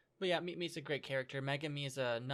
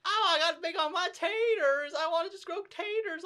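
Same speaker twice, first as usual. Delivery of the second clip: put-on country accent; 5 dB louder than usual. Mimicking the Fire Force dub character, squeaky country accent. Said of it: "that's how he sounds".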